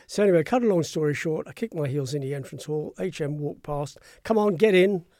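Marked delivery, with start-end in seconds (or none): 4.2-5.1 louder, clipped order tossed out in passing; brisk command. Retold or imitated. The Queen orders the new press man into the car, brusque. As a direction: bark it like an impatient monarch.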